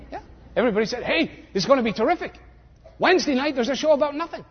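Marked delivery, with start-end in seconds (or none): 1.0-4.4 mock hype. Everybody hyping the new show.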